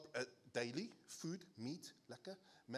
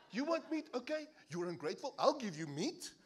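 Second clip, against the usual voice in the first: sarcastic, half laughing; 7 semitones higher, 4 dB louder than usual. Retold or imitated. God's sarcastic reply, retold.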